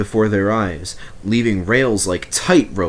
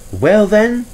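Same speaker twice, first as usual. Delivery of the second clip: put-on high, loud girlish engine voice; Mavis voice; 12 semitones higher, 6 dB louder than usual. A narrator's reading. Mavis brushing off Toby's driver, high and loud. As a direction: pert little engine, squeaky and loud.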